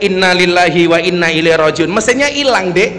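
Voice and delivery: mild mock yell of dismay; retold cry of alarm. Madurese friend finds the car engine missing, mild mock yell. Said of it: "Langsung dia teriak".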